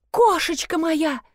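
drawn-out wail, high and slow. A narrator's reading. Hysterical owner wailing for her cat. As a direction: wail for the lost pet. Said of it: "выла она".

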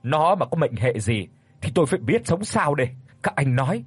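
father confronts the men who hit his daughter, agitated; agitated outburst. Acted. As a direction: demand answers, growing accusing. Father refuses to calm down.

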